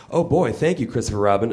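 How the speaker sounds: put-on light up like a kid with candy; excited Pooh. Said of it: "exclaimed Winnie the Pooh".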